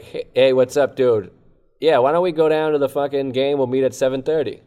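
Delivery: put-on buddy on the phone in a mild Boston accent. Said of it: "Give me a Boston one".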